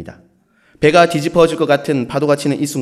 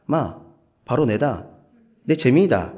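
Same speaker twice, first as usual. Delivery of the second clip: Gyeongsang tough guy; 4 dB quieter, slower than usual. Retold or imitated. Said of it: "우리 경상도 남자들이 소위 폼을 잡을 때 하는 말".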